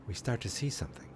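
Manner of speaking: breathy, fast whisper building suspense. Acted. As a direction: drop to a secret whisper, as if something is coming. Suspense building over snowy screen.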